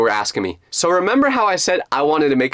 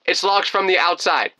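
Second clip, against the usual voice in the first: raised-pitch urgent plea; mock screaming; 6 semitones higher than usual. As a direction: call through the door in a mild mock yell. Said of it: "so I kept screaming".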